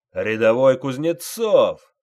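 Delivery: loud, slow drill-sergeant bellow; sergeant yelling. A narrator's reading. Sergeant roars at private Kuznetsov, full bellow. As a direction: roar the name across the parade ground. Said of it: "заорал он".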